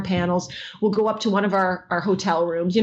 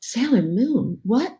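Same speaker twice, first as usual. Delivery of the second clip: puzzled passerby; 2 semitones higher, slower than usual. Retold or imitated. Reading a puzzled passerby's lips.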